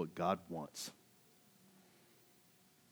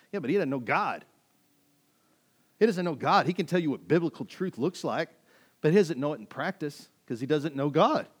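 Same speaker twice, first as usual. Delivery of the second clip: emphatic, raised sermon delivery; forceful preaching; 6 semitones higher, 8 dB louder than usual. Real, not acted. Preacher exposing the Pharisee to church, forceful. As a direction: press the rebuttal hard.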